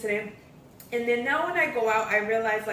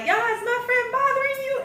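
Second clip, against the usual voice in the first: calling out, much higher pitch. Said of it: "her friend was like".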